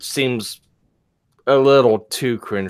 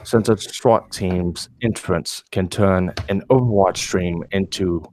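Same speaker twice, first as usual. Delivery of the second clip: low sexy voice. Pretend. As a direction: read it in a low seductive tone. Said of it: "they want to hear the voice".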